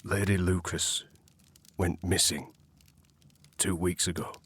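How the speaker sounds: halting, with heavy pauses; reluctant disclosure. Acted. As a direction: break bad news piece by piece. Servant reluctantly breaking bad news.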